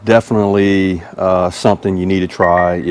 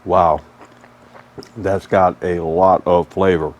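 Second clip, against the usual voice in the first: mouth full; 2 semitones lower than usual. Real, not acted. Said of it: "talk with my mouth full".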